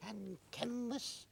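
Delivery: broad hammed-up Scottish voice, high and loud; a comic Highland Scot hawking his wares; Scottish accent. Shown as a demonstration. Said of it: "This is Hint of the Highlands".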